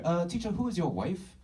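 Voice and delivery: put-on high-pitched student in a clumsy Asian accent; bad Asian accent. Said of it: "I'm just really bad at accents".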